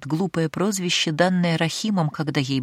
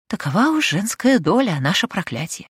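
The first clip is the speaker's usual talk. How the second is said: wry joke; 4 semitones higher than usual. Acted. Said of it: "невесело пошутила".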